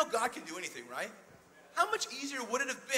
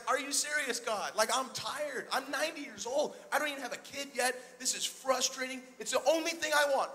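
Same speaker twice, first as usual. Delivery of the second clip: mild mock whine, tired and fed up; complaining Abraham. Old Abraham grumbles to God, a mild mock whine. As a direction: play a weary old man griping. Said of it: "He's complaining".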